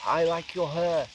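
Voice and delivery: slow, lightly imitated holy man; measured words, a light impression; Dalai Lama. Imitating a holy leader admiring a girl's ponytail, slow light impression. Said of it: "I'll do the impression of him".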